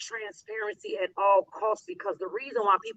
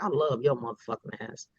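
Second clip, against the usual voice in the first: abrasive; 7 semitones lower, 3 dB quieter than usual. Shown as a demonstration. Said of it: "I can be like".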